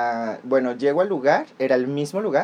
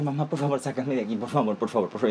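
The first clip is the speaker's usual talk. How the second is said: softer, urgent begging; whispered plea; 5 dB quieter than usual. Retold or imitated. Sneaking a plea to mom while the therapist is out, softly. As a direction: beg mom in a hush so nobody hears. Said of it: "y yo".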